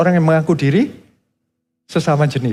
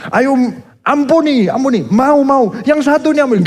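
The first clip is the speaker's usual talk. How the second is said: high, pleading coax to forgive; higher, wheedling mock plea; 8 semitones higher than usual. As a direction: gently beg them to forgive. Voicing God coaxing.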